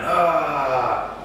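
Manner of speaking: long drawn-out "ah"; imitated crowd noise. Imitating noise at wrestling match.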